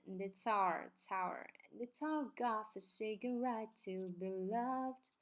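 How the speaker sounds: "It's our" run together as one sound; linked words. Shown as a demonstration. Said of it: "连读的话就是". (连读“It's our”)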